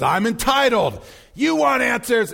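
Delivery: mildly heated movie exchange; Tom Cruise impression. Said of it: "then Tom Cruise says".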